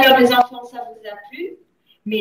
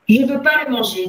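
put-on higher, louder kid's protest; boy refusing; 4 semitones higher, 10 dB louder than usual. A narrator's reading. Gamin refusing to eat the cake, loud protest. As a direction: push back loudly like a stubborn child. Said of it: "dit le gamin".

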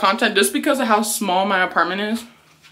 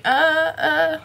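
imitating the stylist; 5 semitones higher than usual. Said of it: "she was just like".

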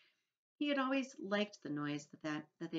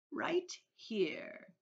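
half-whispered, higher reveal; secretive old grasshopper; 8 semitones higher than usual. A narrator's reading. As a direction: let out a secret with relish.

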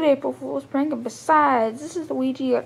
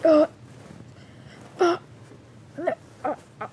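hammed-up dying groans; 3 semitones higher than usual. Character stabbed, collapsing.

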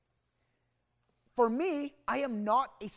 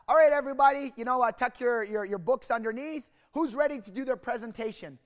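raised teacher voice addressing the class; teacher calling out; 3 semitones higher, 3 dB louder than usual. Retold or imitated. Teacher announcing presentations to the class, raised voice. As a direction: call the class to order, louder.

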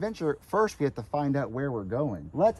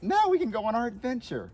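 put-on kids' show host; 5 semitones higher than usual. Shown as a demonstration. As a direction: announce the adventure to young viewers. Demonstrates kids' show line.

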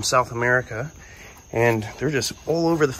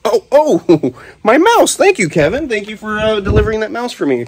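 much higher, louder surprised yelps; startled and laughing; 9 semitones higher, 8 dB louder than usual. Real, not acted. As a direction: react to the loose snake, laughing. Snake escapes and grabs mouse.

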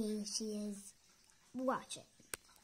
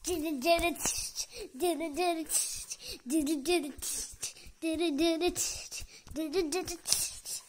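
bird chatter. Acted.

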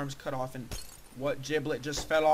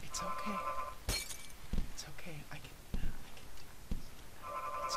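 calming himself; 7 dB quieter than usual. Real, not acted. Talking self down after rage.

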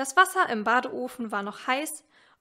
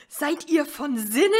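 shouting father; 3 semitones higher, 5 dB louder than usual. Acted. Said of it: "rief er durch das Fenster".

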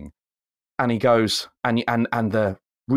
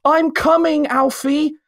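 mock heroic cry, much higher and louder; hammed-up cry; 6 dB louder, slower than usual. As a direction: belt it out like a corny TV hero. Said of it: "he goes".

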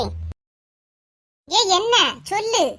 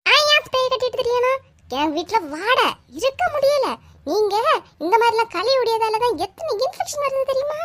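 indignant shouting back; 6 semitones higher than usual. Acted. Quarrel escalates.

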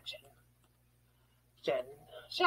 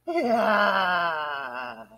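triumphant shout; 12 semitones lower than usual. Acted. Triumphant cheer after announcing arrival.

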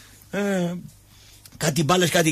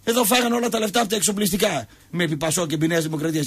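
ordinary talk, nothing marked

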